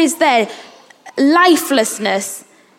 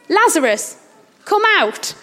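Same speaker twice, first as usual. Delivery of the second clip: simple command; 4 semitones higher than usual. Retold or imitated. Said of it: "his words are so simple".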